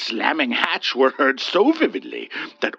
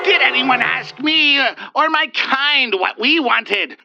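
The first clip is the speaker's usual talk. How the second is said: recriminating; 9 semitones higher, 4 dB louder than usual. Acted. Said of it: "the wraith recriminated".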